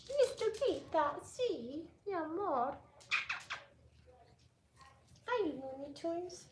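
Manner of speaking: high cooing greeting to a puppy; puppy talk voice. Real, not acted. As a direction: coo hello to the dog, up high. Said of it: "I'm getting into puppy mode".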